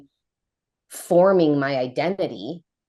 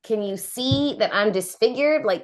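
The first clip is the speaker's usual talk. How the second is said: higher, baffled questions; incredulous disbelief; 7 semitones higher than usual. Retold or imitated. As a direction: play the stunned disbelief, voice up. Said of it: "And I was like".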